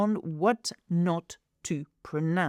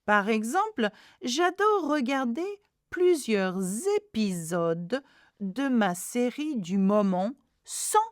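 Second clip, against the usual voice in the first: measured teacher's dictation in French; read-aloud demo; 2 semitones higher than usual. Shown as a demonstration. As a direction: read the French out clearly for learners. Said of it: "that was, uh, the first reading".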